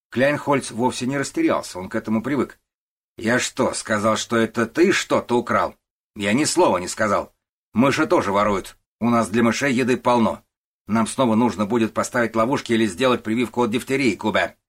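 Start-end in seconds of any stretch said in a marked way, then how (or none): 3.2-14.6 loud, higher, bullying denial; loud blustering boss. Acted. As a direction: drown the old man out. Начальник отрицает с напором. (громкий напористый начальник отпирается)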